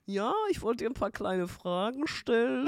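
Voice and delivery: mock customer-service caller; imitated phone caller. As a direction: put on a tedious survey caller. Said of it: "Der hat dann auch so".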